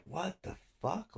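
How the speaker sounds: high, slow, drawn-out incredulity; retold disbelief. Suspect baffled by the cop's order, high retold disbelief. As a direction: stretch it out in mock bafflement.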